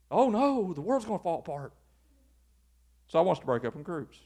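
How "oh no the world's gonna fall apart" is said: mock dismay. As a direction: feign doom over a tiny change. Mocking fear of anything different.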